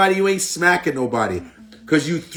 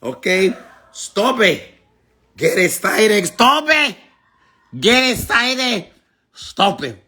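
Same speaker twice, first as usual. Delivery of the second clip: mock Hispanic accent; 3 semitones higher than usual. Mocking a commenter's English, in a broad Hispanic accent. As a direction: plead and scold in a thick fake Hispanic accent.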